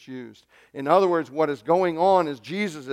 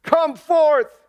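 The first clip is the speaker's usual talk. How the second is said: high, commanding shout; ringing, drawn-up command; loud cry; 11 semitones higher, 7 dB louder, slower than usual. Retold or imitated. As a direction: call out with full force to summon someone. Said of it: "he cried out with a loud voice".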